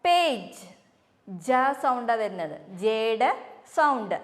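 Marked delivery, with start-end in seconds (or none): 0.1-0.6 teacher models പേജ് with a soft j; soft g demo. Shown as a demonstration. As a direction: say പേജ് ending in a soft j sound. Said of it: "എല്ലാവരും ഒന്ന് പറഞ്ഞു നോക്കൂ".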